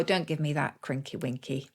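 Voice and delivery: put-on terrible Scots accent. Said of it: "Excuse my terrible accent".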